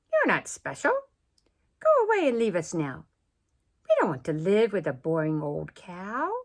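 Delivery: loud, rude brush-off; rude elephants. Acted. Elephants turning away the cow, loud and rude. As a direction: shoo her away, loud and snooty. Elephants rudely dismiss Miss Moo.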